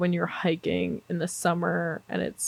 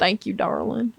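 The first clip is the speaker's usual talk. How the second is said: put-on southern accent. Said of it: "in a fucking country accent".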